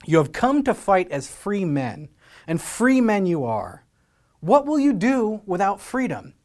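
rally the troops like a warrior; William Wallace speech. Retold or imitated. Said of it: "And William Wallace says this".

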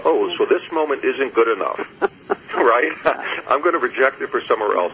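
laughing at one's own thought; retold amused laughing. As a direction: say it through small, self-mocking laughs. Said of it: "I started to laugh".

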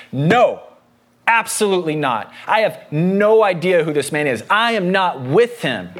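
firm, weighty "No", every phrase stressed; flatly refuse, landing hard on "not with him"; emphatic denial. Acted. Peter denying Jesus to the servant girl, emphatic denial. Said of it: "Peter is emphatically denying".

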